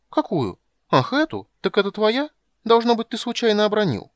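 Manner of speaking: high, loud, faux-innocent chirp; high-pitched mock-innocent kender voice. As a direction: play dumb, bright and loud.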